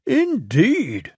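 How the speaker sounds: lightly voiced Fat Controller; Fat Controller, plain. A narrator's reading. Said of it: "said the Fat Controller".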